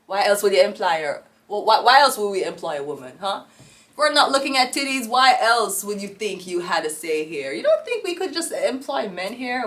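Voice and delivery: loud sneering boss rant; mock boss rant. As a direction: bark it at her like a fed-up boss. Ranting as the boss.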